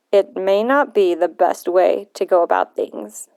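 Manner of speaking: put-on a touch of a suspicious old man; grumpy old man. Voices grumpy grandfather William.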